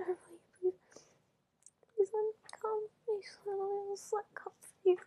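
beg, voice climbing and breaking into cries; breathless begging. Acted. Begging her partner for release, urgent and breathless.

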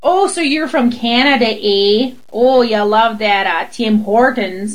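put-on slowing, caricatured Canadian accent; mock Canadian accent. Mimicking people who tease her about Canada, Canadian accent. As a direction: parody someone badly imitating a Canadian. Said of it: "Everyone who's ever been like".

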